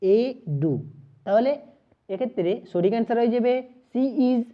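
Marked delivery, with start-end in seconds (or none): 0.0-0.7 এ ডু split into two clear syllables; teacher breaking এ ডু into syllables for students. Shown as a demonstration. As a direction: say এ, pause, then ডু. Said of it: "উচ্চারণটা কেমন আসছে?".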